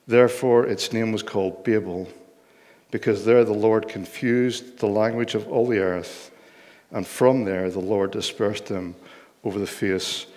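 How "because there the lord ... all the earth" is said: usual speaking voice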